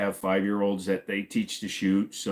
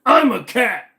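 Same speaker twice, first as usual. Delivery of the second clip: high, loud squeaky cat cry; silly cat voice; 14 semitones higher, 10 dB louder, slower than usual. Acted. Streamer mimics a cat for chat, high squeaky yowl. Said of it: "That's what cats sound like".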